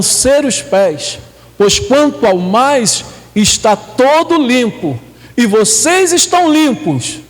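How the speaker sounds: measured, emphatic Bible reading; scripture reading. Acted. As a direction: read the verse out to the congregation, leaning on key words. Reads scripture aloud.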